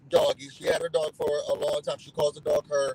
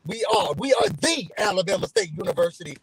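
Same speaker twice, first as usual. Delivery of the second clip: proud, deliberate emphasis on "the"; stress on THE; 2 semitones higher than usual. Real, not acted. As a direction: punch "the" as the one and only. Proudly stressing the school's title.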